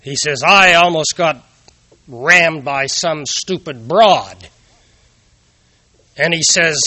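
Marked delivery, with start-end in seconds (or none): 0.4-4.5 louder, slow indignant complaint; mock the fuming young driver; angry driver. Angry driver after near crash.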